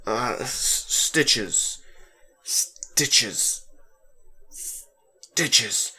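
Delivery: whispering the name to himself; half-whispered name, searching memory. A narrator's reading. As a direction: murmur it, trying to remember. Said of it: "Alex whispered to himself".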